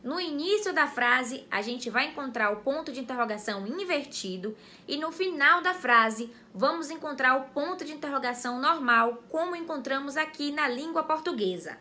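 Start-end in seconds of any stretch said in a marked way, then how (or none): none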